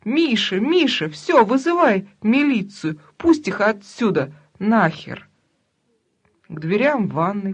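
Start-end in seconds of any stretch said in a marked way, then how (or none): 0.0-5.3 hysterical shout. Acted. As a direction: yell for husband to call police. Соседка в истерике кричит мужу. (истеричный крик мужу)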